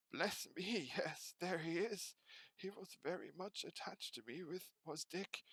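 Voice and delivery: put-on high, laughing old man; laughing fondly. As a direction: chuckle with fond delight.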